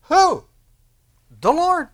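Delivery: very high, loud call; shouted proclamation. Acted. Preacher answering who will act, shouted proclamation. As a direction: ask it sharply, then proclaim the answer.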